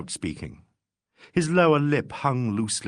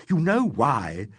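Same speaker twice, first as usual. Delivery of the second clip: rising, indignant tirade, building in force; bitter old man railing at the police; outraged rant; 3 semitones higher than usual. Acted.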